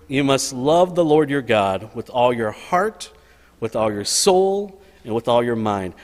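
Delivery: measured reading of the verse; scripture reading. Acted. Pastor reads Jesus's words to the congregation, reverent. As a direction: read it with reverent weight.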